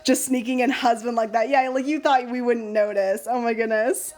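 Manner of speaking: ordinary delivery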